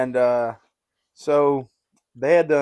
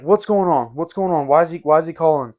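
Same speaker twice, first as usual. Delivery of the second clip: higher, louder, anxious repeated questions; frantic mom; 3 semitones higher, 6 dB louder than usual. Retold or imitated. Mom in the background demanding to know why son's calling, frantic. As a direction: imitate mom, alarmed and pressing.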